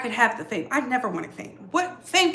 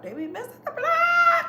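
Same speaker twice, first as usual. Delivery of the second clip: high wailing cry of the line; mock wail. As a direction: wail it dramatically, mock-crying.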